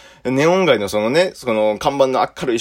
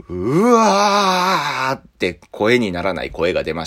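strangled groan; much slower than usual. Retold or imitated.

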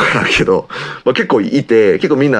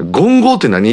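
mocking cousin; 8 semitones higher, faster than usual. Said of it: "って多分誰かが".

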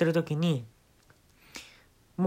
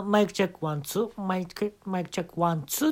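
posing as sound crew; 4 semitones higher than usual. Retold or imitated. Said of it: "スタッフをね、気取る".

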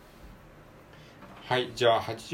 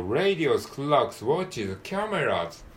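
model word reading; 3 semitones higher, much slower than usual. Shown as a demonstration. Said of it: "最初の文章".

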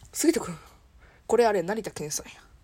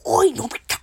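Gian impression. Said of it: "ジャイアン、いけるかな".

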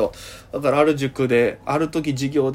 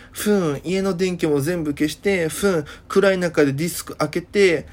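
put-on Okinawan girl chatter; 2 semitones higher than usual. Girl recounting the horror night, lightly mimicked with hums. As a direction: tell it like the gossiping girl with hum fillers. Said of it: "ふーんってかましてくるんですよ".

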